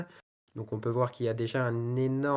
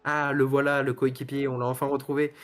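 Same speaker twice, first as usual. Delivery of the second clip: excited; 4 dB louder than usual. Real, not acted. Spotting the lost driver again.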